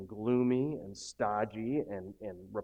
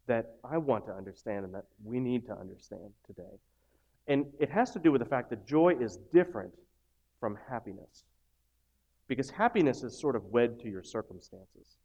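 ordinary talk, nothing marked

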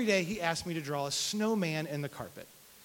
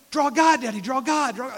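put-on insistent toddler; 8 semitones higher, 12 dB louder than usual. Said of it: "he's just can't stop".

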